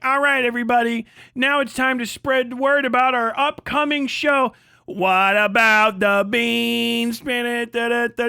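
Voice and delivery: high, loud showman's patter; mock subway performer. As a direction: ham up a subway dancer's pitch to the crowd. Imitating New York street performer.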